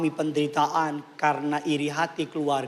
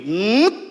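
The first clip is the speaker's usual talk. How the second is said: rising swoop of a ride flipping; loud mimicked whir sliding upward; imitated machine noise; 3 semitones higher, 6 dB louder than usual. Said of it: "terus dibalik begini".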